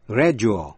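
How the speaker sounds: gradual as "GRA-joo-al"; D pronounced as J. Shown as a demonstration. Teacher gives an example, gradual with a J sound. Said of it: "phát âm như J".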